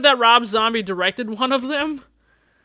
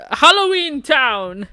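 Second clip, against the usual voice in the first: higher, louder and slow; nervous squeaky answer; 7 semitones higher, 6 dB louder, slower than usual. Acted. Cracking boy naming his favorite horror film, pitched up. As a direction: blurt it out pitched up.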